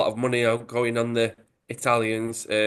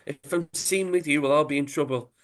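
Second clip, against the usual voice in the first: mock angry; 5 semitones higher than usual. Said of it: "he says".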